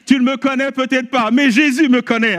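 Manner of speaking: retold excited retort. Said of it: "J'ai dit".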